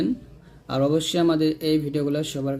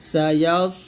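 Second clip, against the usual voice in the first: slow tajweed, long hummed nasal on রং; Quran recitation with qalqalah; much slower than usual. Shown as a demonstration. Teacher models the verse for learners, slow recitation. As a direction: hold the vowels, bounce the final b.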